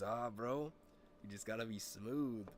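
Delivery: lightly imitated buddy's accent; a hint of his friend's smooth accent; Chavez's way of talking. Buddy explaining his pickup success, lightly imitated accent. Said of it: "Chavez literally talks like that".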